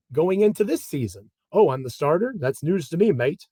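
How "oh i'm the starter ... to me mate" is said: a weak Kiwi accent, lightly put on; jokey half-hearted New Zealand accent; bad Kiwi accent. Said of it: "That's a terrible, uh, Kiwi accent".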